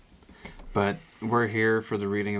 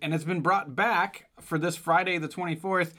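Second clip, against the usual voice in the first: hammed-up Irish promo voice; pitched-up Irish announcer; Irish accent; 9 semitones higher than usual.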